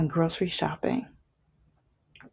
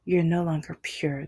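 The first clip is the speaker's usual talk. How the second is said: lightly voiced ex letting it sink in; repeated mock ex-girlfriend. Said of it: "That was what she said".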